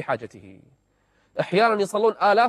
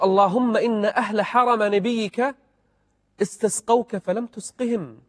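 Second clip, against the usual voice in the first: slow, raised, pleading voice of a man praying; humble pleading prayer; 4 semitones higher, slower than usual. Acted. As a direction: beg God slowly, a little higher. Unknown man praying for rain. (دعاء متضرع بطيء)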